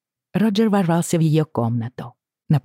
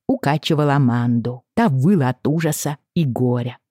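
ordinary delivery, nothing marked

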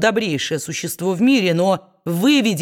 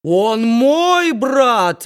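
slow, loud howling cry; preacher's wail; 4 semitones higher, 5 dB louder, much slower than usual. A narrator's reading. Preacher howling back Kit's words, slow and loud. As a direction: drag it out in a howl. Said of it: "возопил проповедник".

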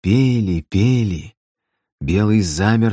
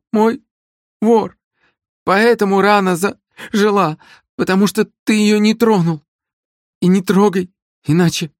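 much higher, swallowing syllables in fear; frightened babbling; 12 semitones higher, 3 dB louder than usual. Acted. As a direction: blurt the excuse out in terror. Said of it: "дрожала от страха".

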